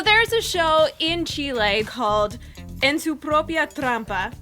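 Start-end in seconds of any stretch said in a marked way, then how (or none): 2.8-4.3 Spanish title in an American accent. Real, not acted. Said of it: "Nice accent".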